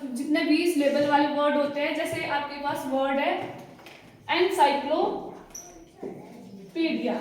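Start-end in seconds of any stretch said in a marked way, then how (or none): 4.3-7.1 एनसाइक्लोपीडिया drawn out slowly, syllable by syllable; slow syllable demo. Shown as a demonstration. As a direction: stretch एनसाइक्लोपीडिया out so each syllable is heard. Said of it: "तो इसमें कितनी आवाजें आ रही है?". (एनसाइक्लोपीडिया को धीरे-धीरे, हर syllable अलग बोलना)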